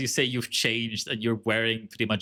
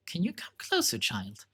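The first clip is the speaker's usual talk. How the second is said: put-on old nun voice.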